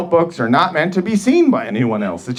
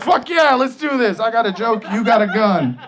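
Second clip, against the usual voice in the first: hyped eagerness; 5 semitones higher than usual. Retold or imitated.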